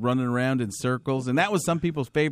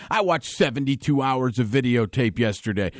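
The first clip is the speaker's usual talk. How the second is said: Ron Jaworski. Retold or imitated. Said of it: "the Ron Jaworski impression".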